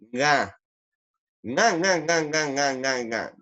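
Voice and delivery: nasal cartoon laugh, repeated "nga" falling in pitch; Calamardo laugh. Shown as a demonstration. Teacher imitating a cartoon for students, nasal laugh. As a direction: honk "nga nga nga" through the nose, stepping downward. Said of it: "o se imita a Calamardo".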